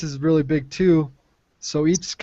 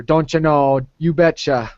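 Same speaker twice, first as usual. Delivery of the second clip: a hint of the Fargo Minnesota twang; Fargo Minnesota accent. Teacher demos the Minnesota countryside accent for the class, lightly imitated. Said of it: "they have a more of a Fargo type of accent".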